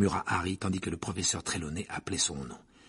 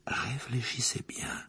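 murmured; 2 semitones higher, 6 dB quieter, slower than usual. A narrator's reading. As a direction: draw the answer out in a murmur. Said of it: "murmura le professeur Trelawney".

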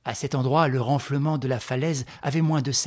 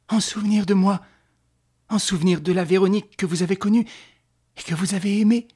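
impassioned vow, building higher and louder; fervent young lover's oath; 3 semitones higher, 4 dB louder than usual. Acted. Stéphane swears to Véronique to see his task through, fervently. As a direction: swear it with rising fervour.

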